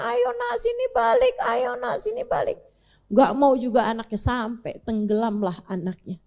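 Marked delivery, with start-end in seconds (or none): 0.0-2.6 father calling back. Acted. Noah calls his son back from the mountain, high and pleading. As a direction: call him back, high and longing. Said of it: "Nabi Nuh liatin".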